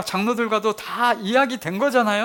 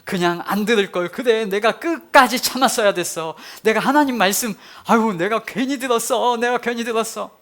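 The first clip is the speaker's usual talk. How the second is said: louder, frustrated self-reproach; regretful grumbling; 4 semitones higher, 4 dB louder than usual. Retold or imitated. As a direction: sigh over having obeyed at all. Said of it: "그렇게 생각이 들었겠죠". (후회하며 투덜대는 목소리)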